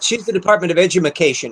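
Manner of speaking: "Edumacation" said as a jokey mangled word; comic mispronunciation. Pretend. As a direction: stretch "Edumacation" with an extra "ma". Joking mispronunciation.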